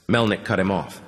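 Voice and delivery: usual speaking voice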